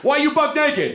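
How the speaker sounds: high-pitched demanding question; high, indignant acted question; incredulous challenge. Confronting naked stranger.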